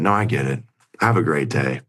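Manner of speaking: retold icy dismissal; stone cold. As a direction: imitate her switching off, understated and cold. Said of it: "she went stone cold".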